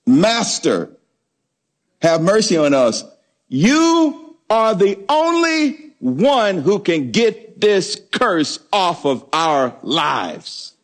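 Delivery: slow, drawn-out begging, not really shouted; mock lepers begging Jesus, stretched out slowly; pleading cry. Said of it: "went to Jesus and shouted".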